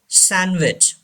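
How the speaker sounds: "sandwich" said as san-wich; silent D. Shown as a demonstration. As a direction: drop the D in "sandwich". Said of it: "Pronounce this word". ("sandwich" में D की आवाज़ नहीं, "सैनविच")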